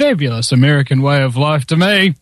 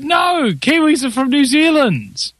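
slow, raised mock-shouted correction; exasperated correction; 8 semitones higher than usual. Retorting to American in anecdote.

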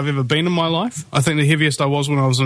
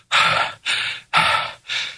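heavy breath out. Real, not acted. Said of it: "I'm kind of out of breath".

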